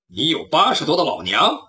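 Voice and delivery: low voice, rising on 八 in disbelief; skeptical hero. Acted. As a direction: question the lie coolly. Hero doubts the thief's lie. (侠客低声反问“你有八十多的老娘？”)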